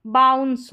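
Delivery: बाउंस with a full "ow" glide. Shown as a demonstration. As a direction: model बाउंस clearly for learners. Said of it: "आउ करके उच्चारण होता है".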